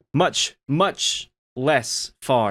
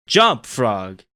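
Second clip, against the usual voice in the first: loud final plea, called out; scientist's last plea to the legless frog, loud; even louder; 5 dB louder than usual. Retold or imitated. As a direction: belt the command as a last plea. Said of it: "even louder than before".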